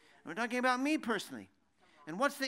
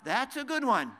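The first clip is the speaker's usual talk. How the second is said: chuckling through the line, louder; laughing; 5 dB louder than usual. Real, not acted. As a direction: laugh as you say it, pleased with the joke. Amused at his own question.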